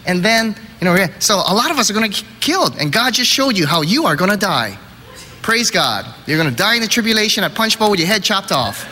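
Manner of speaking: lightly hammed-up enthusiasm; eager explaining. Friend explaining the dream as God's gift, mock-eager.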